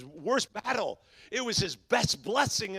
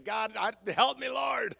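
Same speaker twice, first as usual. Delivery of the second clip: desperate prayer; 3 semitones higher than usual. Retold or imitated. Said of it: "man, I started to pray".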